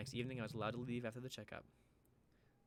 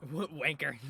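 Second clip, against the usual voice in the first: loud, higher startled cry; shocked outburst; 4 semitones higher, 10 dB louder, slower than usual. Real, not acted. Streamer reacting to Lizzie's rude driving, shocked shout. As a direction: blurt it out in disbelief.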